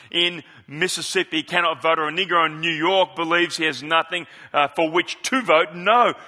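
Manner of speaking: rising oratory in a measured cadence; a preacher reciting a great civil rights speech, building; preaching oratory. Acted. A pastor reciting the speech to his congregation, swelling oratory.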